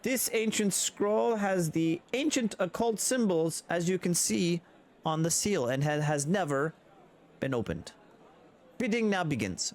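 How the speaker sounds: high, bright auction-house patter; auctioneer. Acted. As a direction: announce the lot to the room.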